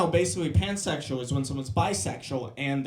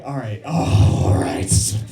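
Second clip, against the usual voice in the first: slow, shaky cold-weather groan; shivering in cold; 7 semitones lower, 7 dB louder, much slower than usual. Retold or imitated. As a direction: brace against freezing wind.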